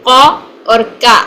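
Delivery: क और का slowly, heavy then light. Shown as a demonstration. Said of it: "मोटे हरूफ की साउंड". (क और का मोटा और बारीक)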